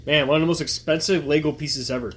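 talking while chewing popcorn; chewing popcorn between words; mouth full. Real, not acted. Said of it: "I apologize for my chewing".

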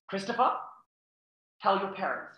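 mock prompting, name lifted like a question; prompting nan. Nan pushing grandson to tell his parents, prompting.

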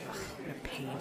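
soft fed-up groan of annoyance; annoyed ugh. Acted. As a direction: sigh it out, irritated and quiet. Grumbling alone about her job.

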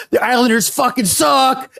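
high mock yell at rival fans; taunting shout at passing Islanders fans; retold scream. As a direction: belt the insult out, half laughing. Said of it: "he screams".

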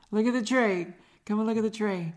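Linda Belcher voice. Retold or imitated. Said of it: "I could do Linda Belcher's voice".

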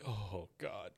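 soft, low mock despair; acted, defeated murmur; broken up. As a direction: groan it quietly, imitating a crushed man. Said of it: "he's just so broken up".

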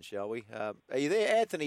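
usual speaking voice

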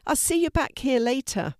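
high, cheerful goodbye. A narrator's reading. Girl waving goodbye to the postman, cheerful and high. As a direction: sing out a bright bye. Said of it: "she said cheerfully".

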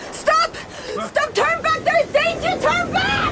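high desperate shouts to a ship; calling out a warning. Acted. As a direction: warn them off at the top of your voice. Girl warns ship from cliff.

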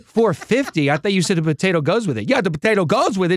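New York server. Retold or imitated. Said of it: "cash register".

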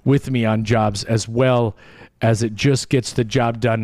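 running out of breath mid-sentence. Real, not acted. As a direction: push through one long breath until empty. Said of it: "I ran out of breath from the run-on sentence there".

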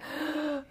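high gasping wail, held back in volume; mock cry-scream with a sucked-in gasp; imitated crying scream. Showing how they screamed at the ceremony, imitated wailing. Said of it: "crying at the same time".

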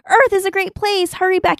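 high yelled call to the sky; a goofy high-pitched yell; mock yell. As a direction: shout it up at the heavens, high and giddy. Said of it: "he's yelling".

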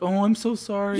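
high-pitched gushing apology; mock apologetic. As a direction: imitate someone apologizing over and over. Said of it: "you keep apologizing".

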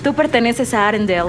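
firm, dramatic Elsa; Elsa dubbing. Acted. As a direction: insist she belongs home. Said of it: "vas a ser Elsa".

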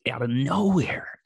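breathy whisper, drawn out a little; hushed, pointed whisper. Real, not acted. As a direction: whisper it like a secret. Stressing how sudden the attack was.

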